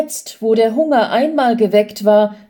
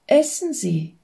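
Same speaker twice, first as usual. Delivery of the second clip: encouraging; 5 semitones higher, 4 dB quieter than usual. Acted. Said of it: "ermutigte er ihn".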